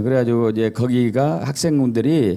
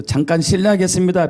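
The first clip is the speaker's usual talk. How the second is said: polite standard Korean, slightly higher; 4 semitones higher than usual. Shown as a demonstration. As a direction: say it in proper Seoul-standard Korean. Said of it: "표준어로 하면".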